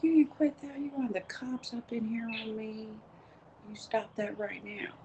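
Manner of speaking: high-pitched stern warning; retold scolding of a screaming kid; retold parent scolding. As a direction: re-enact telling a child off, voice jumping up. Retells scolding screaming child.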